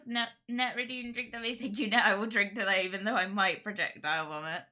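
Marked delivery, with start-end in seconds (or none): 1.6-4.6 loud toast. Real, not acted. Toasting loudly.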